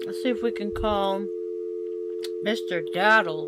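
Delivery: Mister Daddle with Daddle hit hard on its first syllable; stress on DAD. Shown as a demonstration. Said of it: "Emphasis on dad".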